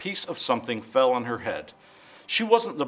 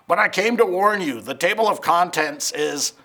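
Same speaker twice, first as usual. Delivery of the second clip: urgent narrator; 4 semitones higher, 4 dB louder than usual. Acted. Jack the narrator warning.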